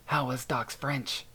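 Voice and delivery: slow, amused question with a smile in the voice. Acted. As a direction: tease him gently, smiling as you ask. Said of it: "asked with a smile in his voice".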